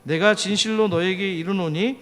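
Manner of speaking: measured recitation of a Bible verse; steady, declaimed reading aloud; scripture reading. Acted. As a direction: lead the congregation through the verse.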